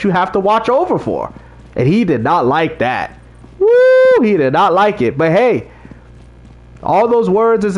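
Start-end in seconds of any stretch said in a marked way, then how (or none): 3.6-4.2 excited woo. Real, not acted. Reacting to the drunk's anger.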